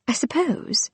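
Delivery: hopeful. Acted. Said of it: "she added hopefully".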